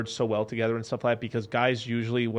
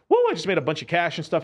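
louder, higher excited brag; excited bragging; 5 semitones higher, 4 dB louder than usual. Retold or imitated. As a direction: brag about the cash. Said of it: "they ping pong between, like".

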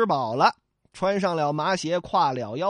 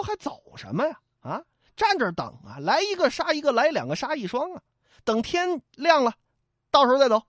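higher, brash fighter's voice; bold hero; 7 semitones higher, faster than usual. Acted. Yang Xiong urging his brothers to stand and fight, brash. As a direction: boast like a reckless warrior.

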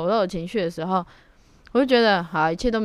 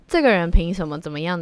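mock indignation; 4 dB louder than usual. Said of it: "或许你在说".

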